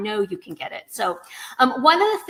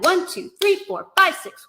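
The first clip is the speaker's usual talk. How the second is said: "one", "three" and "five" punched higher; hemiola emphasis; 7 semitones higher, 4 dB louder than usual. Shown as a demonstration. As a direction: count in pairs, leaning on one, three, five. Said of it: "you really have to emphasize".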